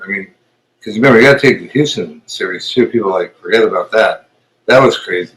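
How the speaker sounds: talking around new false teeth; slightly slurred, teeth just put in; loose dentures. Real, not acted. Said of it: "I'm talking a little funny 'cause I put my teeth in for you".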